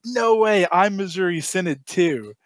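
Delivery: high, hammed-up astonishment; amazed delight. Joke character amazed at shared synod.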